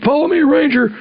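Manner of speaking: mock shouted command; called order. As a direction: bark it like an officer calling across a landing zone. Officer calling out over helicopter.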